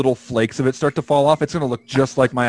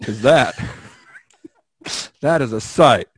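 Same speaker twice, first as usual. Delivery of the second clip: switching impression voices; 3 semitones lower than usual. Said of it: "doing an impression of that guy".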